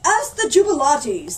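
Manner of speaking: loud, high booming order; mayor thundering the idea as his own. Acted. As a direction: boom it like you thought of it. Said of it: "thundered the mayor".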